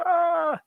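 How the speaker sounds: drawn-out high "ah" of deadline nerves; high anxious wail. Real, not acted. Streamer seeing three minutes left, anxious wail. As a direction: let out a high, stressed wail.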